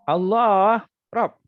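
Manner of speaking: Allah high, loud and drawn out, then short Rabb; slow emphatic Allah, pause, Rabb; pause between subject and predicate. Shown as a demonstration. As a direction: stretch Allah, break, then drop Rabb. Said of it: "Contohnya macam ni".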